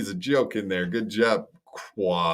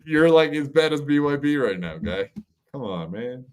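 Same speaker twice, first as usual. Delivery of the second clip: sudden high mock shout that fades out; mock yell; 4 semitones higher, 4 dB louder than usual. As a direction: yell at him to shut up, then trail off. Voicing streamer telling guy off.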